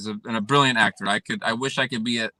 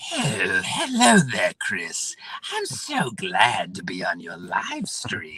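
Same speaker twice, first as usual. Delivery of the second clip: scratchy, scraped voice with swooping, swinging pitch. A guest on a live stream demonstrating a scratchy Joker voice. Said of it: "if I do it now, I'd be like".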